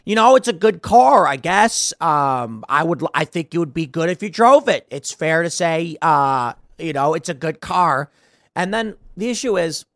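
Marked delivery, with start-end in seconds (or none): 0.0-8.1 mock hesitant sales pitch with ums and uhs; lightly acted unsure seller; unsure salesman. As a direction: hedge it like a salesman who doubts himself. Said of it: "the man who is unsure of himself".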